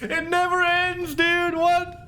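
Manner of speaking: high crazed voice; high manic villain voice; possessed demon voice. Acted. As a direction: rant like a possessed madman. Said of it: "demons kind of voice".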